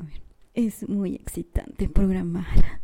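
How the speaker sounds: sultry narrator. Retold or imitated. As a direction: purr it out like a sexy dubbing line. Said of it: "me tocó hacer la voz sensual". (voz sensual lenta, exagerada)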